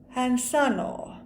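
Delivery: "sanoo" with the final oo held long. Shown as a demonstration. Teacher showing learners a verb form, long final O in "sanoo". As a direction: stretch the oo ending of "sanoo". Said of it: "Pitkä O".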